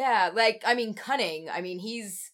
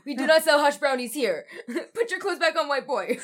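Dutch shopkeeper voice; 5 semitones higher, 4 dB louder than usual. Retold or imitated.

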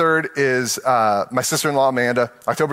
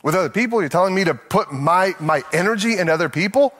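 higher, incredulous questions; mock indignant protest; 3 semitones higher than usual. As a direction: argue back at the pastor in disbelief.

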